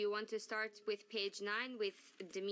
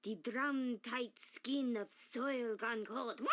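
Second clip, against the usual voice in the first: laughing through it; slower than usual. Acted.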